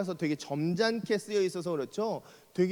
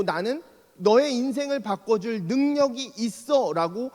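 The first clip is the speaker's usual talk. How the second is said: slow, louder voice of authority; authoritative; 4 semitones higher, 4 dB louder than usual. Retold or imitated. Jesus declaring his power to Peter, authoritatively. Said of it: "권위 있게".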